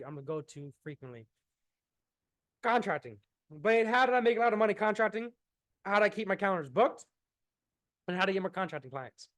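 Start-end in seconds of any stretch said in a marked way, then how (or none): 2.6-9.3 talking through hiccups; words broken by hiccups. Real, not acted. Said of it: "I'm getting the hook-, hiccups right now".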